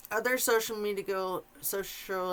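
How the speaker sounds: speaking around braces and wax; words slurred by braces. Real, not acted. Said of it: "I can't speak, I'm sorry for the braces and the wax in my teeth".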